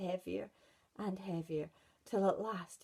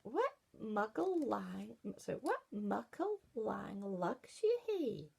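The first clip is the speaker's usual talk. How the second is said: put-on little girl asking; slower than usual. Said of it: "Wee Red Riding Hood said".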